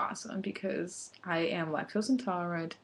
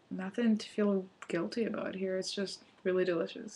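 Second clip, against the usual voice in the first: talking through a mouthful; words round a bite of food; mouth full; 5 dB quieter than usual. Real, not acted. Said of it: "talking with my mouth full of food".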